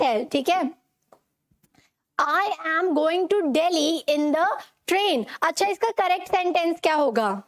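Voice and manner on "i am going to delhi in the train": slow, careful wrong sentence; wrong version. Shown as a demonstration. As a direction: say the wrong version slowly, word by word. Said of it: "wrong है". (गलत वाक्य, धीरे-धीरे)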